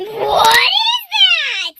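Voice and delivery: slow, drawn-out screamed question; mock scream. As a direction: imitate a screaming child, stretching the words. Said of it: "while Avery screams".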